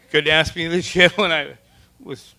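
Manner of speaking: incredulous laughing complaint. Real, not acted. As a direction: laugh through the disbelief.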